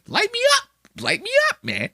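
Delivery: very high, squeaky mock catchphrase; Giannis's shtick. Comic mimicking Giannis's catchphrase, very high squeaky voice. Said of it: "that's Giannis's shtick".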